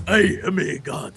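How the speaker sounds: slow, proud god-king declaration; Xerxes voice. Retold or imitated. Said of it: "That was my Xerxes".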